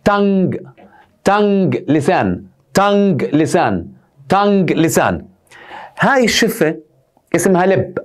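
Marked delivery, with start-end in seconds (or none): 0.0-5.3 "تانج" said as tang, ending in a hard g, repeated as a drill; "تانج" modelled slowly for pupils, tang with a hard g; drilled pronunciation. Shown as a demonstration. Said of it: "هاي الكلمه بدنا نلفظها ست سبع مرات".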